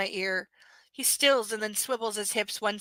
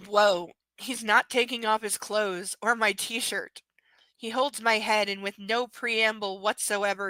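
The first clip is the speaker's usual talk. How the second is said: whispering. Acted. Whispered reading.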